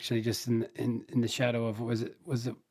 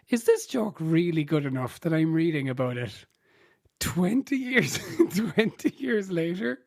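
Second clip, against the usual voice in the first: incredulous; 4 semitones higher than usual. Retold or imitated. Reader recalling doubts over a lame joke, incredulous. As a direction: voice climbing higher in mild disbelief. Acting out own incredulous thought.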